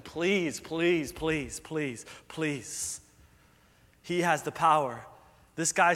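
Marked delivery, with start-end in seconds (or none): 0.0-3.0 fading begging. Acted. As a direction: keep begging as the voice drops away. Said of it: "crawling with him".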